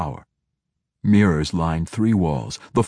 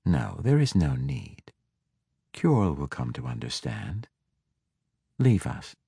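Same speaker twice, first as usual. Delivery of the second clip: calm; 3 semitones lower, 5 dB quieter than usual. A narrator's reading. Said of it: "Ivanel said more calmly".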